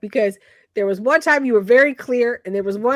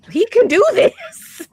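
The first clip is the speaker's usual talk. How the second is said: emphatic insistence; 9 semitones higher, 6 dB louder, slower than usual. Real, not acted. Defending older actor's ability.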